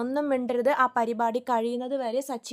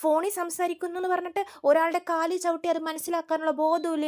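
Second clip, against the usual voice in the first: higher-pitched scolding, a touch of anger; mild scolding; 5 semitones higher than usual. Retold or imitated. Wife scolding the man who stepped on her husband, mild anger. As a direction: tell the stranger off. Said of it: "Revathi അപ്പോൾ ചീത്ത പറയുന്നുണ്ട്".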